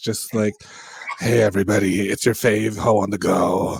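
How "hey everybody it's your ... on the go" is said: worn-out, raspy, hoarse voice. Teasing the other speaker about how they will sound in twenty years, raspy voice. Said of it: "I can't wait to hear that raspy ass voice".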